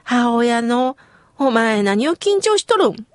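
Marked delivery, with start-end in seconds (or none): 1.4-3.1 lightly voiced Kyushu mother; Kyushu dialect. Remembering the mother's words, mild Kyushu dialect. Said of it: "という九州弁で".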